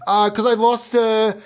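high, nervous caught-out voice; nervous excuse. Acted. Caught in the dumpster, making an excuse, high and nervous. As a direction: stammer a guilty cover story.

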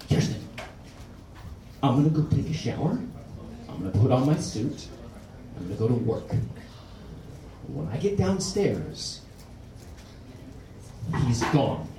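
low, soft, seething calm; husband holding his rage with a drunk wife, quiet through his teeth; quiet fury through teeth. Retold or imitated. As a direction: talk through your teeth, the rumble before an avalanche. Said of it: "you sort of talk through your teeth".

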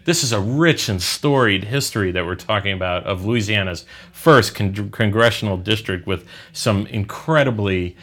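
dry mock praise; sarcastic. Real, not acted. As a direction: lay the irony on thick. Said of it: "you can sense my dripping sarcasm".

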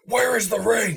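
high, forceful mock movie hero; overdone intense demand. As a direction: come on far too strong, imitating the character. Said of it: "you're coming on a little strong".

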